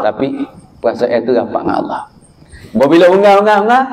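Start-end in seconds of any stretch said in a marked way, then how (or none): 2.7-3.8 calling out for water. Acted. Hajar searching desperately for water.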